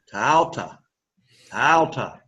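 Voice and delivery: "Tau ta" with Tau rising then falling; circumflex tone. Shown as a demonstration. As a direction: swing Tau up and back down, then a light ta. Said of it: "go up and then go back down".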